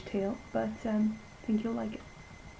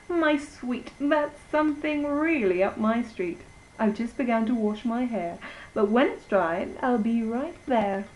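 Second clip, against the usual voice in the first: lightly voiced Riding Hood; 2 semitones higher than usual. Red Riding Hood replies.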